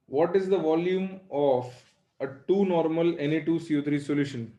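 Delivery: slow, word by word for copying; slow dictation. Shown as a demonstration. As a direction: dictate it slowly so they can write. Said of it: "लिखो". (धीरे धीरे लिखवाना)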